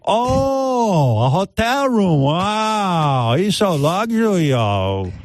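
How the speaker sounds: high, cooing naive wonder; long high "oh" of amazement; Chinny impression. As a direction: marvel in a high, broken-English voice. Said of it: "brings her to a room and go".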